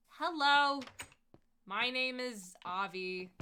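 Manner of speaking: answering the brand with exaggerated politeness; loud mock reply. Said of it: "and I'm like".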